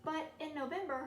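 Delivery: loud, emphatic month heading; announced month. A narrator's reading. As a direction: call out the month like a title.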